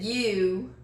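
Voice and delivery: "You" drawn into two syllables, Texas style. Retold or imitated. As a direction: quote Mom's Texas "You" in two beats. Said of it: "that's a Texas accent".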